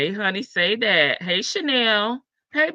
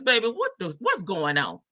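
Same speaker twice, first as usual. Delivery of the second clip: a soul singer; 2 semitones lower than usual. Retold or imitated. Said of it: "In my soul singer voice".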